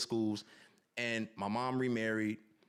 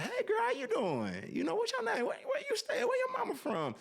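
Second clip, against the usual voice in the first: put-on soulful Houston accent. Son retells mom greeting his friends, soulful Houston accent. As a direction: greet them like a warm Houston mama. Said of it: "my mom's, like, soulful Houston accent".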